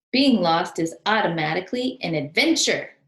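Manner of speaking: cried out. Acted. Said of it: "cried Albert".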